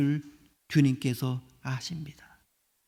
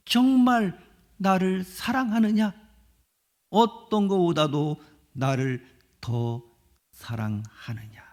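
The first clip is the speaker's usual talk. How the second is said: tender question; slower than usual. Acted. Jesus asks Peter tenderly.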